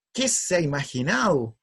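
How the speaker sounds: acted-out indignation; angry father. Father outraged by his son's letter, angry. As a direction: exclaim it as the affronted dad. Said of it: "y se empieza a enojar".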